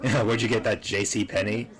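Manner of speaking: snide, teasing question about the cheap suit; mocking taunt. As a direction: toss the insult off lightly, mocking. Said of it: "he said".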